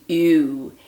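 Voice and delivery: mild mock scream. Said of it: "who screamed".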